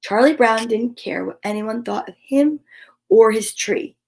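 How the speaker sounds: gentle read-aloud storytelling voice; story narration. A narrator's reading. Host reading a Charlie Brown Christmas story to viewers, storytelling voice. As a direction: read it like a bedtime story for kids.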